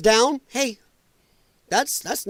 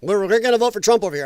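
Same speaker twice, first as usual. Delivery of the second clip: mock American Indian accent. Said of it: "I went American Indian on that one".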